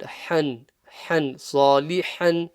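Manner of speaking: Han with the ha from the middle of the throat; throaty ha. Shown as a demonstration. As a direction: isolate the ha of Han, then place it in صَالِحًا. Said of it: "the ha as well at the end".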